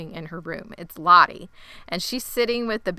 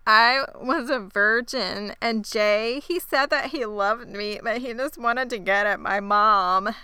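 fake crying; slower than usual. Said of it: "She starts crying".

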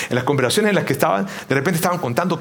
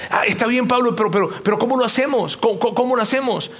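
higher, stammering doubter questioning; higher-pitched imitated objector; mock objection; 6 semitones higher than usual. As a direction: play a puzzled listener pushing back. Acted objection put to Paul.

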